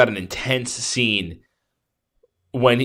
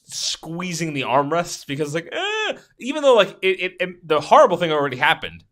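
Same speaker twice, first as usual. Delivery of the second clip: remembered terror; 6 semitones higher than usual. Retold or imitated. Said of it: "terrified of what was gonna happen next".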